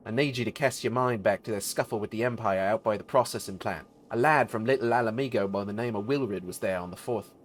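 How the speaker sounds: lightly voiced British rogue; British mercenary. Mercenary asks a comrade about missing Wilrid, lightly accented British rogue.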